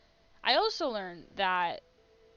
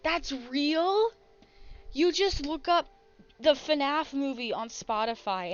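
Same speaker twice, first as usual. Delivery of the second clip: loud, high disbelief; amazed; 3 semitones higher, 6 dB louder than usual. Real, not acted. Streamer amazed the movie is on Spotify, loud disbelief. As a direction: shout it out, stunned it's real.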